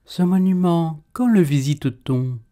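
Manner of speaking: high, wide-eyed innocent question; naive. Acted. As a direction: ask like a wondering child. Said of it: "Naïf".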